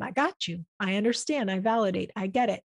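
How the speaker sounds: soft, hushed, reassuring murmur; a parent softly calming a crying kid; soothing a crying child. Pretend. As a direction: hold them close with the words, gently.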